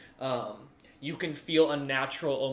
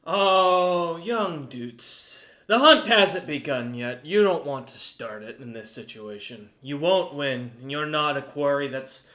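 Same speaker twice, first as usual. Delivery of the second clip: Goose the merchant; 8 dB louder, slower than usual. Acted. Merchant captain lecturing the party, loud and haughty. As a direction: lord it over them as the proud merchant.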